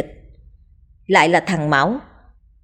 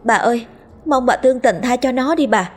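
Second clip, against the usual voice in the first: higher, begging and desperate; pleading servant girls; 5 semitones higher than usual. Acted. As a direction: plead with the mistress for mercy.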